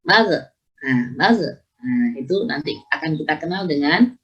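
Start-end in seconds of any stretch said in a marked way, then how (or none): 0.0-1.6 "magh-" stopped short on the gh; "magh-" without any lingering friction; ghain cut off. Shown as a demonstration. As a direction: break off abruptly after each "magh-". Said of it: "tidak boleh".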